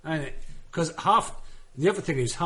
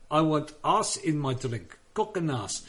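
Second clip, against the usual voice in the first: put-on Afrikaans, open "ahs" for ice; Afrikaans accent; 2 semitones higher than usual. Shown as a demonstration. Comic repeating his demo for friends, Afrikaans accent. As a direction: do it as an Afrikaner ordering. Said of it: "I can do Afrikaans as well".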